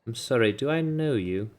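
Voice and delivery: suspicious. Acted. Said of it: "He goes, deeply suspicious".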